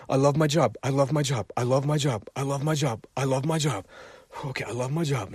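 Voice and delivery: mock chanting to convince yourself; forced self-talk. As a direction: repeat it like a half-hearted mantra. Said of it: "fake it to make it".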